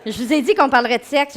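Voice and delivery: quick, laughing tease. Real, not acted. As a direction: laugh through the reminder. Teasing the class, laughing. (en riant, taquine)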